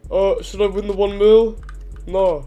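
blocked nose. Real, not acted. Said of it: "Bro, what is your voice?".

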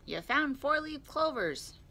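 high, slow, amazed exclamation; excited cry. A narrator's reading. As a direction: marvel at a lucky find. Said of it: "cried Rabbit".

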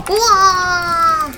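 drawn-out awestruck wow; slow awed wow. Real, not acted. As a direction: let the wow hang in awe. Watching the game end.

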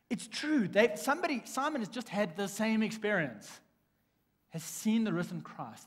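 high, loud exclaiming of the news; joyful announcement. Acted. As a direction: burst out with the good news to the two. Repeating the disciples' excitement.

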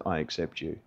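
very soft, low and tender; quietly retold reassurance; gentle acceptance. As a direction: quote a hushed, accepting welcome. The Lord's gentle words, retold.

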